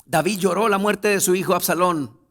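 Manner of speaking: loud, high preacher's cry; fervent sermon climax; full-force preaching. Acted. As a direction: proclaim it to the whole church.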